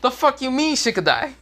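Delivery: very high indignant put-on girl voice; high shrieked protest; outraged girls. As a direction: demand an answer in disbelief. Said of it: "All the girls are like".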